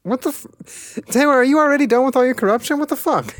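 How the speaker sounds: high, loud disbelief; shocked outburst. Real, not acted. Player realizing a friend betrayed her, shocked yell. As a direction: blurt it out in stunned outrage.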